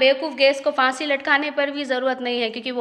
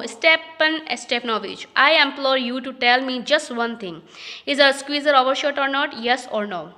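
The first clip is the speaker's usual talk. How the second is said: reading each English line slowly and carefully; slow play reading; much slower than usual. Acted. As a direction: read it out like a play script, word by word. (धीमी, साफ़ नाटक पढ़ाई)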